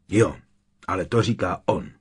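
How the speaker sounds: mírně jedovatá odpověď; ošklivé odseknutí. A narrator's reading. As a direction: odsekni to s trochou zlosti. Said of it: "odsekl ošklivě". (úsečně a ošklivě)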